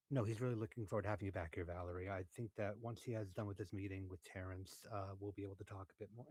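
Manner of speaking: quick, businesslike pretend call; fake phone chatter. Staged call to nobody as the boss passes, fake chatter. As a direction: rattle it off as if mid-call. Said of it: "starting a conversation with nobody on my phone".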